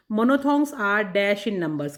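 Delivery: slow, deliberate reading of the quiz line; slow question reading. Shown as a demonstration. Teacher reading a quiz question to students, slow and deliberate. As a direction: read the question out slowly for students.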